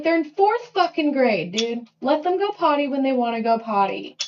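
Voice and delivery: high-pitched, loud, exasperated mock rant; loud, high retelling of a fed-up parent ranting; retold rant. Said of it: "I'm like".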